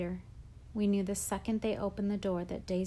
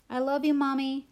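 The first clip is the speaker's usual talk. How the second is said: tearful call; 5 semitones higher, 7 dB louder than usual. A narrator's reading. Girls call goodbye to departing mom.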